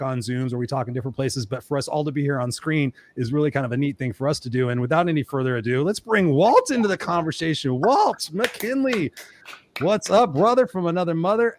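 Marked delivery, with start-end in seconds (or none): 5.8-11.6 announcer-style build-up, higher, name drawn out slowly; hyped guest introduction. Real, not acted. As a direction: welcome the guest with big showman energy.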